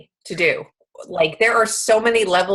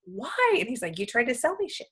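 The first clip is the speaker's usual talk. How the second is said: upset. Real, not acted. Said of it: "Are you okay?".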